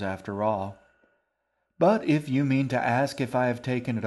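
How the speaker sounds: shaggy man holding forth about his cats; shaggy old man. Acted. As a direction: declaim like a jolly, pompous old man.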